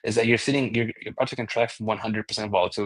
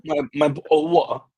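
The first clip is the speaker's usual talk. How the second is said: a higher, dropped-T British accent, hammed up; mock British accent; 5 semitones higher, 4 dB louder than usual. Host joking back about his water in mock British accent. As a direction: answer back in a silly fake British accent. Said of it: "It's very simple to do the British accent".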